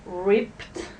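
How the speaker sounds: "Ripped" with a crisp unvoiced t at the end; model word. Shown as a demonstration. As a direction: stress the final t in "Ripped", no voicing. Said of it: "here we have some examples".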